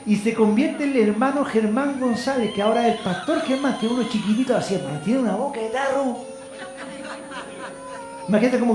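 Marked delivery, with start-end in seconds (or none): none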